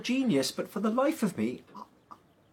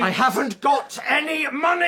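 loud, high outburst with a broken laugh; exasperated shout; 5 semitones higher, 6 dB louder than usual. Acted. Father snaps at the weeping old man for money. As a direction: blurt it out at the end of his rope.

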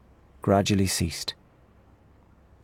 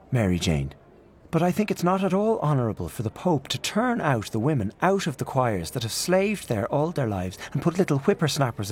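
put-on mild indignant old aunt, pitched up; a touch of heated protest; fierce; 5 semitones higher than usual. Aunt Kate rebuking her niece Mary Jane, mildly fierce. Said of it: "Aunt Kate turned fiercely on her niece".

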